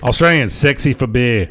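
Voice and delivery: mock Australian ad line; Australian accent. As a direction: fake an Aussie accent. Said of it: "that's not what they say".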